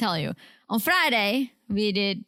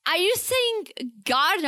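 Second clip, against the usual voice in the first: slower, higher-pitched baffled question; puzzled order taker; 6 semitones higher than usual. Retold or imitated. Retelling the phone order, mimicking puzzled order taker. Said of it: "And she's like".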